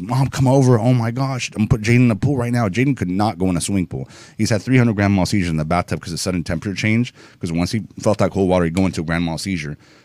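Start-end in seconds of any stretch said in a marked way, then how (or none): 0.0-2.7 acted-out crying scream, high and tearful. Retelling calling mom on the first day: reenacting own crying scream. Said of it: "screaming, crying at the top of my lungs".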